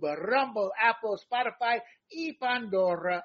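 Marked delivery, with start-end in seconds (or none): 2.1-3.2 put-on Spanish-accented y Pandora; Latino accent. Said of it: "I love tossing my Latino accent out".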